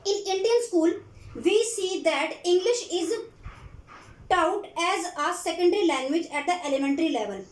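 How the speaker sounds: reads English slowly, word by word, for notes; slow dictation. Acted. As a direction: spell it out slowly so students can write. (धीमी आवाज़ में लिखवाना)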